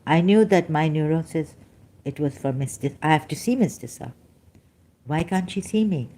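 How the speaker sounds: normal talking voice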